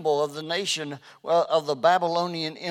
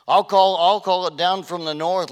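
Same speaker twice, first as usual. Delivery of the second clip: loud declaration; 2 semitones higher, 7 dB louder than usual. Acted. Preacher voices God's threat.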